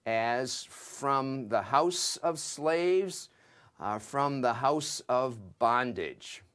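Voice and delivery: "from the house of slaves" drawn out slowly, with weight on slaves; slow, deliberate. Shown as a demonstration. Teacher gives the English idiom "house of slaves", slowly. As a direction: let slaves ring out, slowly. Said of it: "into English idiom".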